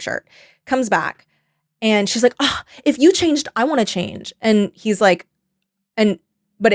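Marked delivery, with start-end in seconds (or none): 2.4-4.3 annoying influencer. Retold or imitated. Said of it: "everything she's saying is so fucking annoying".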